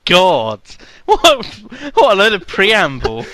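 high, loud exasperated cry; exasperated outburst. Real, not acted. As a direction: burst out in disbelief. Exasperated at long email.

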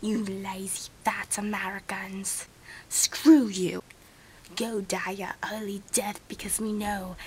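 mock insults in an amateur Australian accent; attempted Australian accent. Non-American friend berating lazy Americans, attempted Australian accent. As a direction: put on a wobbly British-Australian accent. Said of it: "Maybe I should do Australian".

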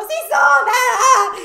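high, loud exasperated yell; shout. Retold or imitated. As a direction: yell back into the phone. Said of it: "y yo". (grito agudo y fuerte)

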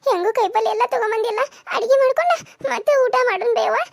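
put-on high, tearful child's plea; pleading high, tears rising; close to tears. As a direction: beg mother to stop crying. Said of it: "ನಂಗೂ ಅಳು ಬರ್ತೈತೆ ಯವ್ವ".

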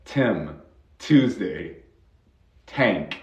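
"Tim", "Tuesday", "Tank" with a puffed t; strong airy t opening "Tim", "Tuesday", "Tank"; aspirated T. Shown as a demonstration. Teacher lists English T examples, puffed initial t. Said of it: "también con la T".

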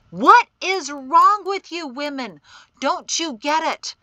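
loud, high-pitched exasperated questions. A narrator's reading. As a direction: throw it at them in frustration. Exasperated man scolds the women.

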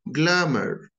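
"Glamour" with a strong American r at the end; American pronunciation. Shown as a demonstration. Teacher contrasting the accents, American take. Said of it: "notice the differences between them".

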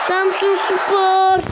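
drawn-out excited shout. Real, not acted. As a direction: stretch it out with excitement. Pack reveal, club announced.

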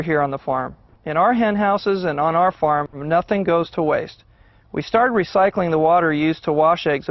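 measured, even corporate-video read; scripted video narration. Acted. Egg farmer presents the family farm to students, scripted narration. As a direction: read it as a prepared farm profile voice-over.

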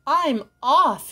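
frightened fisherman crying out as he flees. Acted. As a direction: bolt away with a yelp. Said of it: "he cried".

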